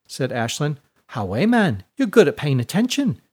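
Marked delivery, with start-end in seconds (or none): 1.1-3.2 higher, louder teasing chirp. A narrator's reading. Tess teases Ashlyn before slipping out, chirping. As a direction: tease her brightly on the way out. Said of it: "chirped Tess".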